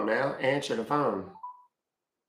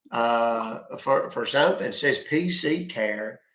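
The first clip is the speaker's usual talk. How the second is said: slow, louder, hesitant caller persona full of uh; slow confused caller; 4 dB louder than usual. Acted. Scam baiter to fake support agent, slow muddled caller voice. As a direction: play a muddled customer who got a bill, slowly and a bit louder.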